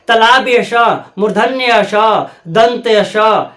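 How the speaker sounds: तालाब्य स, मूर्धन्य स, दंत स, each name set apart; correct pronunciation demo. Shown as a demonstration. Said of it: "ऐसे इसका शुद्ध उच्चारण होगा". (तालाब्य स, मूर्धन्य स, दंत स साफ़-साफ़ अलग करके)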